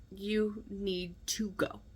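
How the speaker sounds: slow, deliberate command; measured, drawn-out order to someone loved; slow warning. Retold or imitated. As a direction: spell out the warning word by word, slowly. Warning little brother in dream.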